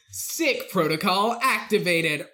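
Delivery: slow flat machine announcement; robot voice. Retold or imitated. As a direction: say it like a monotone robot. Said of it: "a robot voice goes".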